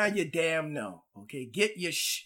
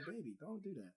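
soft plea; 3 semitones lower, 19 dB quieter, faster than usual. Retold or imitated. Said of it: "I'm like".

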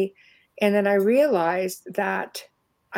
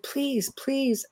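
mock pleading; 5 semitones higher, 6 dB quieter than usual. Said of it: "they started pleading".

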